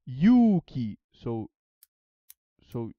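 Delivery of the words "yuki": yuki with a stressed, louder first syllable; pitch demo. Shown as a demonstration. Showing a Greek friend the pitch, yuki stressed. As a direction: punch the yu of yuki. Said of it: "I will show you".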